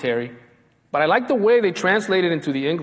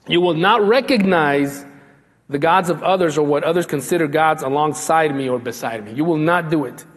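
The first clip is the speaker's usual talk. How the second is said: forceful. Acted. God's command preached forcefully.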